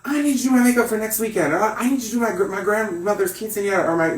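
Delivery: put-on high-pitched, eager elderly client; imitated old ladies. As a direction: plead excitedly as an old Latin lady. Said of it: "old ladies".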